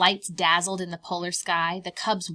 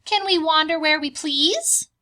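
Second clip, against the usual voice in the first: high, louder little cub asking; 8 semitones higher, 9 dB louder than usual. Acted. Bear cubs asking Mama, high child voice. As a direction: pipe up like a curious bear cub.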